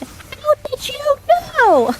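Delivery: put-on high, amazed little boy's shout; kid shouting back. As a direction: squeal it like a startled kid. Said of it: "he shouted".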